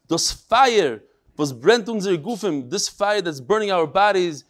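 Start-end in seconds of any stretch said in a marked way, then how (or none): 0.1-2.7 Litvish Yiddish. Retold or imitated. Rabbi reads a martyr's last words to his class, Litvish Yiddish. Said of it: "in the Litvish Yiddish".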